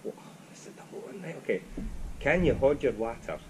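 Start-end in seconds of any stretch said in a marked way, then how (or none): 2.2-3.4 careful Glaswegian "hod yer watter"; attempted Glaswegian accent. Shown as a demonstration. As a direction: try the Glasgow accent, dropping the L in hold. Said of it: "I've got a terrible accent".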